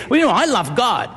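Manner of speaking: quick, offhand mock of a careless believer; loose casual claim. Mimicking people who loosely claim to love God, offhand. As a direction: toss it off lightly. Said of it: "very loosely say".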